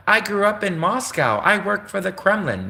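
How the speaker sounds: high, hammed-up protesting Russian YouTuber; pretend Russian channel. Imagined Russian channel pleading to YouTube, high mock voice. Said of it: "Be like".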